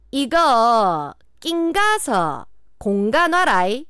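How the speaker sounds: very slow, exaggerated Gyeongsang dialect; 경상도 사투리. Shown as a demonstration. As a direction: announce a dialect test item, each chunk stretched in Gyeongsang intonation. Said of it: "경상도 방언 능력 검증 시험". (시험 듣기처럼 느리게 늘인 경상도 사투리)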